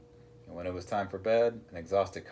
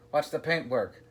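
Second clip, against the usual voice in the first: roar; 6 semitones higher than usual. A narrator's reading. Captain worried for his ship, mildly roaring. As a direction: holler a warning. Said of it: "roared Abdul".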